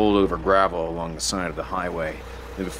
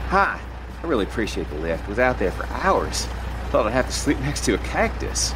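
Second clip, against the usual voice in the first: put-on a lightly higher, brisk young woman; young woman's voice; 5 semitones higher than usual. Young hitchhiker Katie speaks.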